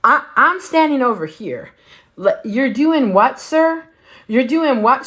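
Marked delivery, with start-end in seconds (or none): 2.4-5.1 higher, incredulous double take; can't believe what she's hearing; stunned what; shocked disbelief. Retold or imitated. Her shocked reaction.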